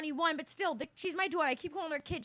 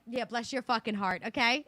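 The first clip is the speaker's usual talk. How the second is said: mock sweet comeback; 2 semitones lower, 4 dB louder than usual. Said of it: "I was so frustrated".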